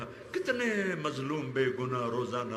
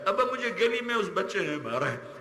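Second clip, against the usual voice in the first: put-on hurt child complaining; 5 semitones higher than usual. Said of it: "جیسے بچہ پٹ پٹا کے".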